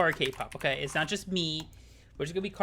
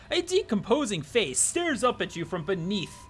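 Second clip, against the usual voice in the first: narrator voice; slower than usual. Acted. Narrator describes vomiting.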